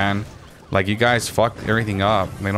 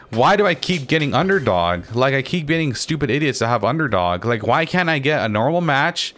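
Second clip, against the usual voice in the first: high-pitched, exasperated rant; real gamer rage with swooping pitch; genuinely mad; 4 semitones higher than usual. Real, not acted. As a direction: complain heatedly, failing to stay calm. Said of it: "I didn't mean to get this mad".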